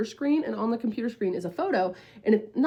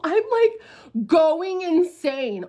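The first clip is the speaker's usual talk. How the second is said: high, stretched-out frazzled emphasis; going insane; 5 semitones higher, 4 dB louder, much slower than usual. Retold or imitated. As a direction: draw it out, worked up.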